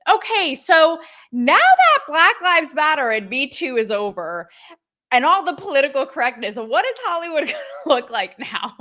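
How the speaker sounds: mock Italian-accented interviewer question. Vlogger mimicking the Italian reporter questioning stars, Italian accent. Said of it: "in her Italian accent".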